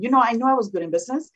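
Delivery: fast, amused sarcasm with a laugh; mocking, laughing. Retelling how she mocked the China smear, laughing. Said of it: "I sort of made fun of that one".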